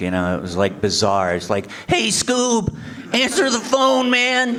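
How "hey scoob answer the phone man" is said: very high, cartoonish voice. Recalling recording answering-machine messages, doing a Shaggy voice. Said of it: "I was doing things like Scooby and Shaggy".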